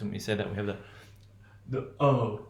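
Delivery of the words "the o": "O" as a rounded British received pronunciation vowel; "O" in Queen's English. Shown as a demonstration. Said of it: "British English received pronunciation O".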